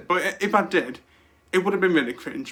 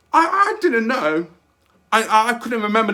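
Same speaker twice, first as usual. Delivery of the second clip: excited stammer; 5 semitones higher, 5 dB louder than usual. Real, not acted. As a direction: stumble over it, thrilled.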